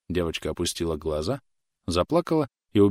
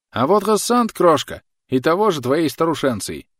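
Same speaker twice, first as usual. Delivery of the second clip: loud call; 9 semitones higher, 5 dB louder than usual. A narrator's reading. Soldier calling to girl.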